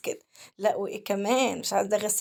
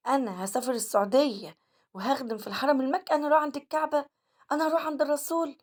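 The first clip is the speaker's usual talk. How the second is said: raised pitch, joyful disbelieving questions; awed disbelief; 5 semitones higher than usual. Retold or imitated. Cleaner marvels at the chance to serve in Mecca, awed excited disbelief. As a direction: marvel aloud at going to the Kaaba.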